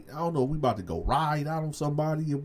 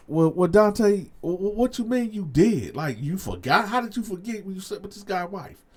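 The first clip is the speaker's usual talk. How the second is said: higher, louder skeptical heckler; lightly voiced incredulous crowd; mock audience; 7 semitones higher, 6 dB louder than usual. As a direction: imitate doubting listeners, a bit mocking. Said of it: "A lot of y'all gonna be like".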